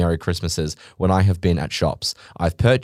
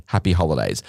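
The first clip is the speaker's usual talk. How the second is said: mock shop clerk; 7 semitones lower than usual. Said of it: "I don't wanna hear at a shop".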